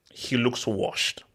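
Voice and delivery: slow, hushed "he looks washed"; whispering. Real, not acted. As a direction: whisper it slowly, dismissively. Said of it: "whispered put-down".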